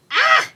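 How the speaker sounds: loud high yelp; sudden sharp howl, acted out; howl of pain. A narrator's reading. Clawed woman cries out in the tub, howling. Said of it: "I howl".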